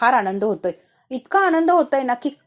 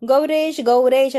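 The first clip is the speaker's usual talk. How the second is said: loud call across the house, louder on the second name; calling loudly; 5 dB louder, slower than usual. Acted. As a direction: shout the name for the servant. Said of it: "असा आवाज द्यायला लागलेले असतात, तेही मोठ्या आवाजात".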